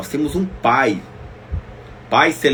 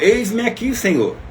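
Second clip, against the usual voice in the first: eager answer; 10 semitones higher than usual. Acted. Preacher voicing the answer to God.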